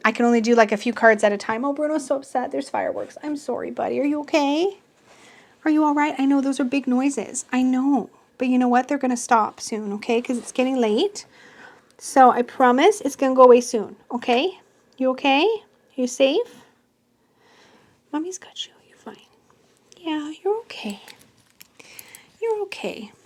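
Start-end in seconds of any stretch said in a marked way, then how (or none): 1.6-16.6 soft, soothing voice for a pet; calm a frightened puppy gently. Real, not acted. Comforting scared dog during fireworks. 18.1-23.1 soft, high hush to a pet; whispering. Real, not acted. Hushing scared dog close up.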